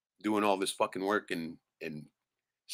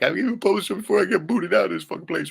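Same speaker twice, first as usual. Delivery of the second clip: voiced inner thought; 14 semitones higher, 9 dB louder than usual. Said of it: "I think a lot of that was like".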